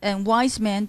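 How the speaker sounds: "wise man" both syllables stressed; double stress. Shown as a demonstration. Teacher scanning the poem, "wise man" doubly stressed. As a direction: give "wise" and "man" equal weight. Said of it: "double stress".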